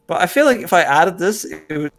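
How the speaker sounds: mild put-on British vowels; understated British accent; light British accent. Shown as a demonstration. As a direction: keep the British vowels going. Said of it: "do I sound better or worse like this".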